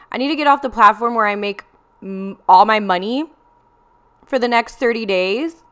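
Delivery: reacting to the voice's order with laughing disbelief; incredulous laughing disbelief.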